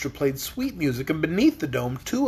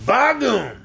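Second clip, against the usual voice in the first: gasped; 5 semitones higher, 4 dB louder than usual. A narrator's reading. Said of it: "gasped Uncle Henry".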